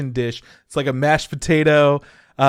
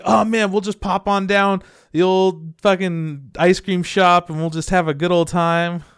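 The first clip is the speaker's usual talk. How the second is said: folksy daydream; 5 semitones higher, 4 dB louder than usual. Retold or imitated. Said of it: "I keep being like".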